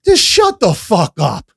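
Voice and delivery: stern telling off. Retold or imitated. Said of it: "I'm like".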